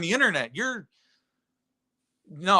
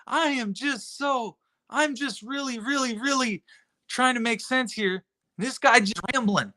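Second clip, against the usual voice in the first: mock Teresa; 4 semitones higher than usual. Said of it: "Teresa's trying to run around in circles going".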